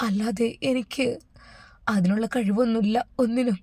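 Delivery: a touch of tears in a hushed, pleading prayer; understated crying dua to God; tearful prayer. Acted. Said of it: "Shamas കരഞ്ഞുകൊണ്ട് ദുആ ചെയ്തു".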